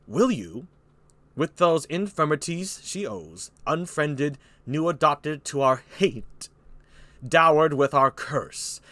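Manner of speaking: slow, measured kingly pronouncement; King Lear. Acted. Lear giving Burgundy the choice, slow stern king. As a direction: spell out each condition slowly and weightily.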